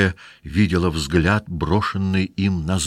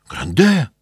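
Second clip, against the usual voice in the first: higher, louder desperate second call; cry out; 8 semitones higher, 4 dB louder than usual. Acted. Sick wife crying out to her husband from bed. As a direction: shout his name to stop him. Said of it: "закричала больная".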